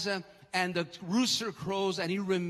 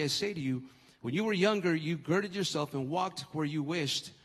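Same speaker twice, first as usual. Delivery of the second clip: lower, sober Bible reading; scripture reading; 4 semitones lower than usual. Acted. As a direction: read the passage out solemnly in a lowered voice. Reads scripture aloud.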